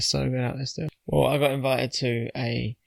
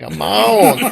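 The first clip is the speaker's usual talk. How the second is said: laughing through it; 6 semitones higher, 14 dB louder than usual. Retold or imitated. Retold club banter, laughing.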